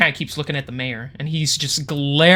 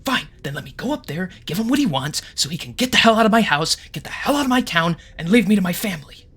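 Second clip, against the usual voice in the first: exasperated mayor; 4 semitones higher than usual. Acted. GM voices desperate angry mayor.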